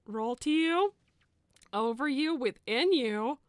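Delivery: a mildly sinister egg whispering to its chosen one; creepy egg voice. Acted. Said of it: "reading that out loud never happened".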